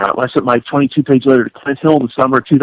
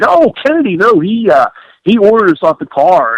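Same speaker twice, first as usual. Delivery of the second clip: mock agent excuse; 6 semitones higher than usual. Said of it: "They changed their tune and said".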